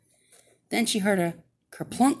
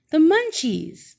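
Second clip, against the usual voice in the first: high, slow put-on witch voice; lightly voiced good witch; witch character voice; 8 semitones higher, 4 dB louder than usual. Woman voices Munchie answer.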